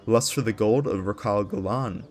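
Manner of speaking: epic trailer-style storytelling voice; dramatic lore narration. Acted. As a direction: read it like the opening of a fantasy saga. Reads the lore intro aloud.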